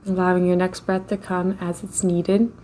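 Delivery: ordinary talk, nothing marked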